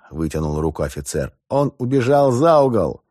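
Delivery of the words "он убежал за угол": high, loud shouted warning; urgent shout. A narrator's reading. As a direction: yell it across the corridor. Officer calls in firefight.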